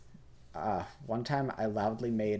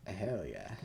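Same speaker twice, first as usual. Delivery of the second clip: whispering; 4 dB quieter than usual. Real, not acted. Quiet win while playing.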